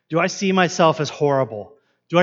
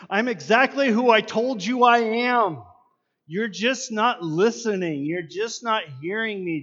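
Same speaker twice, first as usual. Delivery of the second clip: exasperated; 5 semitones higher than usual. Acted. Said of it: "exasperation in Jesus' voice".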